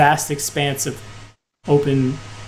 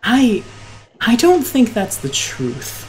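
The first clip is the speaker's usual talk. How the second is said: higher, halting, emphatic figure voice; woman in the clouds, challenging; 6 semitones higher than usual. Acted. Woman questioning why the guest left, challenging. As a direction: challenge them with careful, lifted emphasis.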